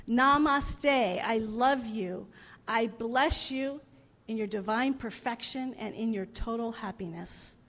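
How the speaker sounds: slow, measured recital of a blessing; silent blessing. Retold or imitated. Author blessing everyone he meets in his head, slow recital. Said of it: "in his head he's saying".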